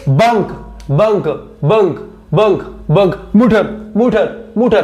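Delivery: बंक and मुठर with short, quick vowels; teacher modelling short vowels, each word said separately; short vowel demo. Shown as a demonstration. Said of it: "short आती है".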